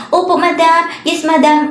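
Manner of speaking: mock deference. Employer mimicking the helper answering back, mock deference. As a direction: mimic a mockingly obedient reply. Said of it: "Ganun yung sabi niya sa akin".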